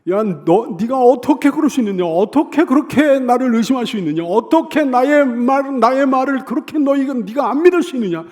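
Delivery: loud, high, indignant scolding; angry outburst. Acted. Preacher imagines Jesus berating doubting Thomas, angry outburst. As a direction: hammer out outraged questions at a doubter. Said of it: "이렇게 화를 내실 만한 상황인데".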